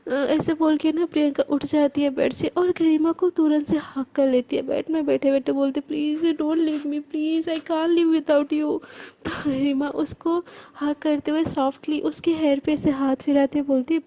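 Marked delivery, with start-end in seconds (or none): 5.8-8.8 drawn out, very slow begging; slow desperate plea. Acted. Girl hugging her friend, begging her to stay, very slow. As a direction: stretch every word as you beg.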